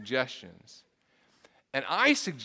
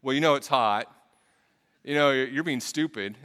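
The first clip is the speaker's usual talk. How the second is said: a touch of a self-justifying excuse; half-hearted grumpy excuse; mock excuse; 6 dB louder than usual. Pastor mocks his own excuse to his son. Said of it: "can't begin the apology with".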